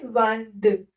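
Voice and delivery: वान द as nasal "van" plus soft "duh"; French pronunciation. Shown as a demonstration. Teacher modelling twenty-two in French, वान द pronounced the French way. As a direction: say वान द as French vingt-deux. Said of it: "क्या बोलते हैं?".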